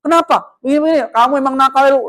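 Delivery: a teacher jumping straight to blame; harsh scolding. Shown as a demonstration. Teacher snapping at a bruised student's attacker, harsh scolding. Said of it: "antum langsung ngegas".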